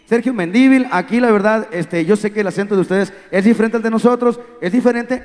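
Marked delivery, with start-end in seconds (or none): 0.1-0.9 "Mendívil" said with the accent on DÍ; men-DÍ-vil, stress the middle syllable of "Mendívil"; stress on first I. Shown as a demonstration. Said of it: "póngale acento en la primera I".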